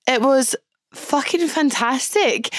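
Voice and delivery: ordinary talk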